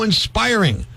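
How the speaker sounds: drawn-out retold admiration; imitated gushing, falling at the end; raving fan. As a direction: say INSPIRING slowly, as sincere praise. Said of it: "She's raving about the show".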